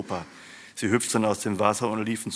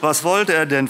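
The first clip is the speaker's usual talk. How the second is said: much higher, louder female-character question; curious question; 8 semitones higher, 9 dB louder than usual. A narrator's reading. Wife asks husband about the visitor, curious. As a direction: ask with raised, lively curiosity.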